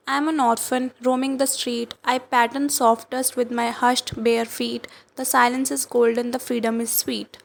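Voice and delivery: slow, dreamy poem reading; poem recitation. Acted. Teacher reading Amanda's mermaid daydream, slow recitation. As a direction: let the lines drift slowly.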